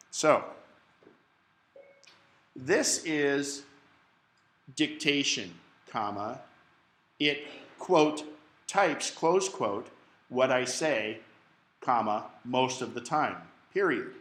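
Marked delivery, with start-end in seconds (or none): 2.6-14.1 dictating. Shown as a demonstration. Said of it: "I'm gonna show you a little example of this".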